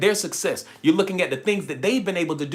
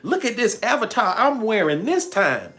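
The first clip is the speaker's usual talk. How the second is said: higher, slow, delighted self-admiration; admiring herself; 5 semitones higher, slower than usual. Pretend. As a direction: show off the new look with glee. Soul admiring its new avatar.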